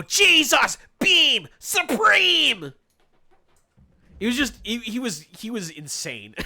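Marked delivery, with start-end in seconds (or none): 0.0-2.7 much higher, very slow drawn-out shout; stretched, high-pitched mock yell; yelled move name. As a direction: hold every word like a super announcement. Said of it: "he would go".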